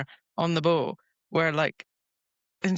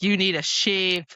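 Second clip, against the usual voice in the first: retold retort; 2 semitones higher, 4 dB louder, slower than usual. Retelling her comeback to him, mock retort. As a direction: throw it back as a cheeky retort. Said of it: "So she's like".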